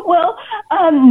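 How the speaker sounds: laughing through the words. Real, not acted. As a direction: talk while still laughing. Still laughing, recovering.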